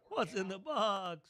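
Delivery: quiet, slow movie line, lightly voiced; a hint of the anguished detective; movie quote. Host quotes the Se7en ending, quiet slow movie line. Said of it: "her head in a box".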